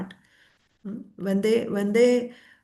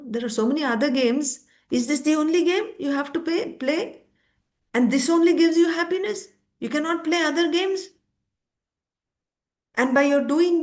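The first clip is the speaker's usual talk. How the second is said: a higher, mock-scolding mother's voice; 6 semitones higher than usual. Mother scolding little Nimai for playing with a puppy, higher voice. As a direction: chide him like a worried mother, pitch raised.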